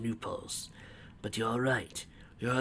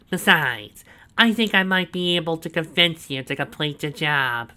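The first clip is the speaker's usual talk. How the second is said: proud villain boast; 6 semitones higher, 7 dB louder than usual. A narrator's reading. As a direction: savour every word of the boast. Snively's voice.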